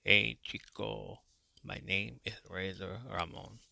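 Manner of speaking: put-on a schoolkid hamming up his wrestling hero's accent; Razor Ramon impression. Kid at school greeting classmates as Razor Ramon, mock Cuban accent. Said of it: "school going like".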